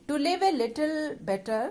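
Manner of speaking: slow, measured poem reading. Acted. Teacher reading the poem line by line to pupils, slow recitation. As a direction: read the verse out slowly, phrase by phrase.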